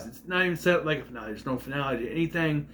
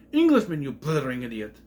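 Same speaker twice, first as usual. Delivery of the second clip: Professor's outburst. Retold or imitated. Mock outraged Professor yelling Englishman at a student. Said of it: "the best line the professor ever had".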